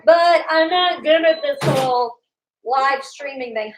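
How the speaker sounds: high, loud and flustered; nervous rush to fill silence. Real, not acted. Left alone on podcast.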